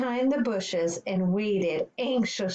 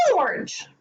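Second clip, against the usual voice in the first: sharp, higher scolding call; high screech; 8 semitones higher, 4 dB louder than usual. Acted. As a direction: screech a name to halt someone. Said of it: "a high voice screeched".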